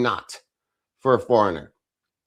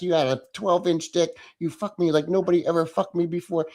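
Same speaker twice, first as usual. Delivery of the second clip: sugary fake coddling, voiced rather than truly whispered; mock whispered reassurance; 2 semitones higher than usual. Streamer sarcastically coddling a viewer who feared yelling, mock soothing. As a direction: pretend to soothe and praise, laid on thick. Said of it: "I'm gonna whisper to you".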